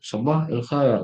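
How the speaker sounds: "Sabah el khair" cut into separate pieces; chopped up. Shown as a demonstration. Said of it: "kayak dipotong-potong gitu".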